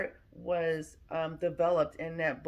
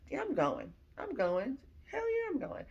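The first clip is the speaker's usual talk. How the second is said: excited yes; 7 semitones higher than usual. Retold or imitated. Eager reply about going.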